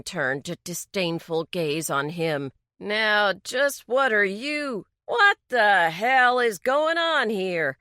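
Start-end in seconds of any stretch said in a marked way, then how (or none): 2.8-7.8 loud, indignant demand from the bald mechanic. Acted. Bald mechanic confronts the sheriff, loud demand. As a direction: demand answers, voice raised. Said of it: "suddenly demanded".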